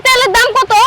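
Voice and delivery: shocked, mocking scolding of a beggar; indignant disbelief. Shopkeeper scolds beggar asking oil.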